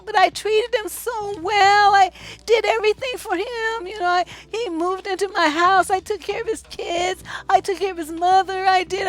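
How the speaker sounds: mock hurt girlfriend complaining; imitating a hurt woman. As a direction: play her protesting how much she gave. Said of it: "these women go through all".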